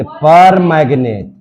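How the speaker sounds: पर in पर मैग्नेट leaned on, the name said slowly; stress on पर. Shown as a demonstration. Teacher drilling the prefix for students, stressing पर. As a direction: land hard on पर, then मैग्नेट. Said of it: "तब इसको क्या पढ़ेंगे?".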